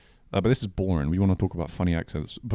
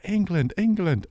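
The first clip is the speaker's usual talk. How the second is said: high, silly mock-Italian voice; pitched-up, badly faked Italian; put-on Italian accent; 10 semitones higher, slower than usual. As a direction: answer like idiots faking an Italian accent. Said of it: "talking like absolute idiots".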